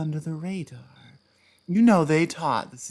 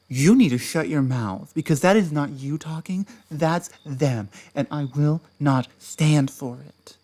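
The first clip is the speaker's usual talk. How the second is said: angry; 3 dB louder than usual. Acted. Ex snaps at partner to shut up.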